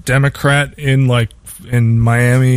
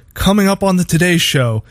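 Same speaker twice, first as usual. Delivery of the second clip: higher, slower announcer read of a morning show promo; 6 semitones higher than usual. Retold or imitated. Retelling the old Today Show promo to friends, in a higher, slower announcer voice. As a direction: pitch it like a breakfast TV promo voice. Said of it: "they're like".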